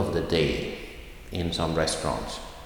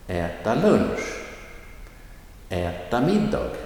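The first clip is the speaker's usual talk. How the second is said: äta short, lunch and middag stressed; phrase stress on the noun; 2 semitones higher than usual. Shown as a demonstration. Teacher drilling the same pattern. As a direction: hit the noun, keep äta light. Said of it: "The äta is short and then comes the main noun".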